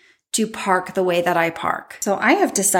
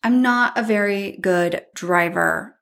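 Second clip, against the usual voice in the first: slowed down, each word weighted; slow emphatic admission. Real, not acted. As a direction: spell out the confession deliberately.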